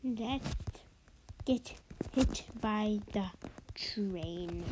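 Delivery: soft unvoiced whisper. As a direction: whisper it like a secret. Whispered scheme near train.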